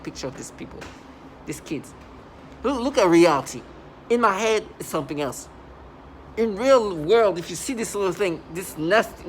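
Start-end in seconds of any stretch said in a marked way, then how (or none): 2.6-9.3 real agitation, key phrases pushed louder; emphatic and worked up, loud on the openings; emotional. Real, not acted. Insisting to viewers on what reality is, emotional. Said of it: "I get emotional".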